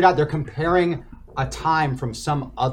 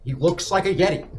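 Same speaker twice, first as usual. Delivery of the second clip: ordinary talk, nothing marked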